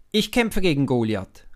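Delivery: loud, determined declaration; bold call. A narrator's reading. David declaring to King Saul he will fight, loud. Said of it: "ruft David".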